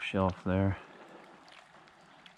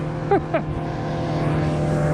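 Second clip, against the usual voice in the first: excited laugh; 4 semitones lower, 5 dB louder than usual. Real, not acted. Landing the fish.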